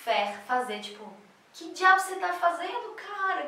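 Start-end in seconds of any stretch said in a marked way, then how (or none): 1.5-3.4 pergunta chocada e aguda, bem mais alta; indignado surpreso. Retold or imitated. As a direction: espanto indignado com quem mexeu. (espanto indignado, voz bem mais alta)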